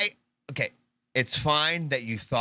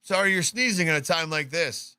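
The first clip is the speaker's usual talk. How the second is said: slightly mock-polite, higher-pitched bystander; lightly acted anxious politeness; 5 semitones higher than usual. Host as bystander blessing a sneezer during gunfire, lightly mock-polite. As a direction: lightly play a courteous man trying to get an answer.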